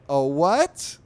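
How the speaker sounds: loud, high baffled question. Acted. Sister lost by Jason's wave file talk, loudly baffled. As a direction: throw the question back, voice jumping up.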